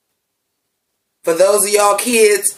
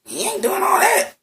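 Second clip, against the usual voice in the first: mock squeal; 12 semitones higher, 4 dB quieter than usual. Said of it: "I was like".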